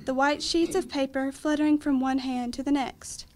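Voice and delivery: measured reading of long verse lines; poem recitation. Acted. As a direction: read a memory poem aloud, phrase by phrase. Reads memory poem aloud.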